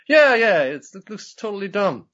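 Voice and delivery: rabbit voice. Retold or imitated. Voicing the rabbit Rabin.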